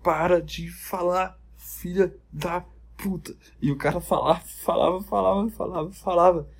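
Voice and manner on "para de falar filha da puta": exasperated plea. Retold or imitated. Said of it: "Aí todo mundo".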